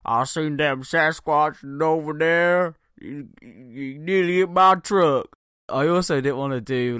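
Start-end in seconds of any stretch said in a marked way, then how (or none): 0.1-5.4 mock American redneck accent, high and loud; hillbilly redneck. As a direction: play a spooked hillbilly. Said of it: "hillbilly American rednecks talking about".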